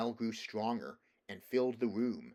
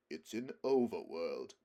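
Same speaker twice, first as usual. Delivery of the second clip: a touch short of breath; 4 semitones lower than usual. A narrator's reading. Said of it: "struggling a little to get his breath".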